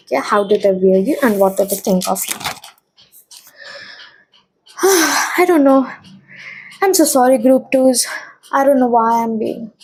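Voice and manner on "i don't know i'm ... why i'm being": breathless with sighs; out of breath. Real, not acted. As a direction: speak out of breath. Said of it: "just out of breath".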